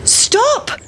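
very high cry of stop; high-pitched yell at normal volume; storybook shout. A narrator's reading. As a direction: call out after a runaway. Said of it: "shouted the mother".

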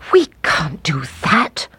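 tearful breathy whisper, slowly; crying whisper. Acted. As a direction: whisper it through tears. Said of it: "cried the woodcutter".

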